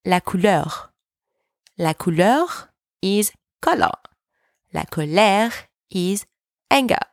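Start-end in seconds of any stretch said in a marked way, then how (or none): 0.0-0.9 "couleur" as French "koo-LUR"; French "couleur", distinct from colère; contrasted French vowels. Shown as a demonstration. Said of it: "not to be mixed with". 4.7-5.5 "colère" as French "ko-LAIR"; French "colère", distinct from couleur; contrasted French vowels. Shown as a demonstration. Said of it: "differentiate between the two sounds".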